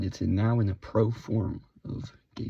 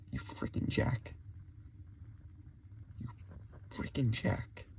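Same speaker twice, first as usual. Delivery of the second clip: slow whispered insult; 9 dB quieter than usual. Acted. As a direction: drag the insult out in a hush.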